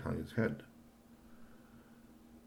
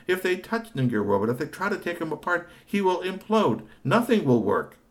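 indignant rant; 6 semitones higher, 7 dB louder than usual. Acted. Robot maker rants about oafs.

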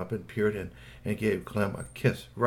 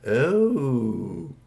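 long drawn-out oh of surprise; startled oh; 3 semitones higher, 3 dB louder than usual. A narrator's reading. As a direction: let out a stretched oh. Wife startled by tentacles.

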